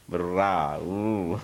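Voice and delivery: a light, drawn-out imitation of an Irish accent; mock Irish drawl. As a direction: stretch the vowels like a brief Irish caricature. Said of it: "a way of talking long".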